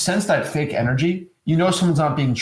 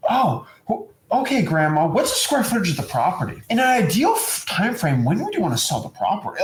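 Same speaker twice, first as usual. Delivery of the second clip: cold salesy questions; 4 semitones higher than usual. Retold or imitated. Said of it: "you're not gonna talk to your grandma like that".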